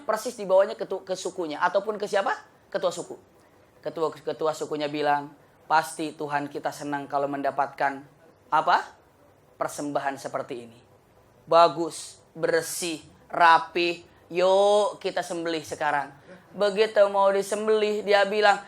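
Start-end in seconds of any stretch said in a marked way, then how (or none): 5.6-16.1 tribal chief. Acted. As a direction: savour the offering slowly. Chief speaks of sacrifice.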